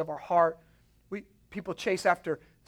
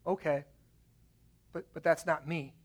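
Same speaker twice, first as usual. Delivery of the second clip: quoted God's reply; 3 semitones lower, 7 dB quieter than usual. Retold or imitated. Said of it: "The God of the Bible says".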